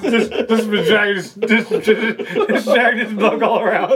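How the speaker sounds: stumbling over the words through laughter; laughing too hard to finish; real laughter, words tripping over each other. Real, not acted. Laughing at the three-hour debacle.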